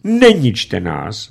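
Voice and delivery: put-on slow, pleading old bandit; imploring. A narrator's reading. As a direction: beg for mercy. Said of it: "volal úpěnlivě stařičký bandita". (úpěnlivě prosit)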